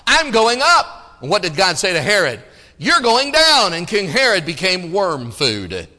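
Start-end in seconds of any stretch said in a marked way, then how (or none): 0.1-1.2 I'm going up, high and stretched out slowly; gloating king rising on every word; mock proud boast. Preacher voicing Herod to his church, a slow high boast. 2.8-3.7 You're going down, high and loud; emphatic verdict. Acted. Preacher voicing God's answer to Herod, loud and high.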